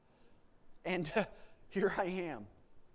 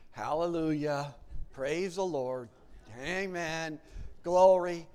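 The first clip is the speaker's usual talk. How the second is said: loud praise; 8 dB louder, slower than usual. Retold or imitated. Praising God aloud in car.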